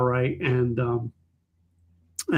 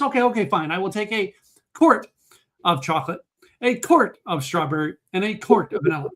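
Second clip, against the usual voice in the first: higher fussy lady voice ordering; Texas lady; 5 semitones higher than usual. Retold or imitated. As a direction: play the picky lady, pitched up. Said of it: "She goes".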